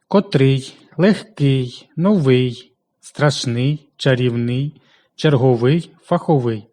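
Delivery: котрий, легкий, новий, страшний, чарівний, черговий, фаховий, each stressed on its final syllable; end-stress each word: котрий, легкий, новий, страшний, чарівний, черговий, фаховий; stress on last syllable. Shown as a demonstration. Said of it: "наголошуються переважно на останньому". (наголос на останньому складі: котрий, легкий, новий, страшний, чарівний, черговий, фаховий)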